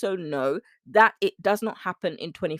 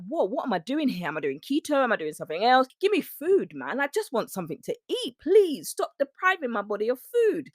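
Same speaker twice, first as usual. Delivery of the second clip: pleading body; 4 semitones higher than usual. Acted. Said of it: "your body is like".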